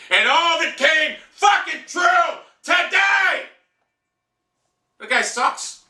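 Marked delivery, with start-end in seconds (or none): 0.1-3.5 bitter furious yell; slow angry shout. Real, not acted. Fan raging at the Browns loss, slow shout. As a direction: drag it out slow, high, yelling.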